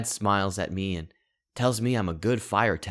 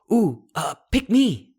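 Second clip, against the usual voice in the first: much higher and louder, a squealing plea; eager pick me; 10 semitones higher, 6 dB louder than usual. Pretend. Child voicing the fire asking to dance, squealing eagerly. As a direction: beg to be chosen like an excited kid.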